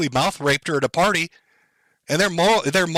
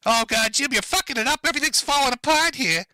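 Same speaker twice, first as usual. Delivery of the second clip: mock panic; 7 semitones higher than usual. Mock panic over mic.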